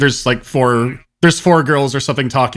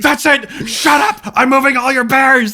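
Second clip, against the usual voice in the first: much higher, mock-frantic outburst; losing his mind; 10 semitones higher than usual. Substitute threatens the class over bears, losing it. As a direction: imitate a teacher snapping, high and stretched out. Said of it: "a substitute who lost his mind".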